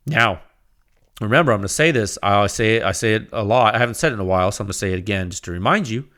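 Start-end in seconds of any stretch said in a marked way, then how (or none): none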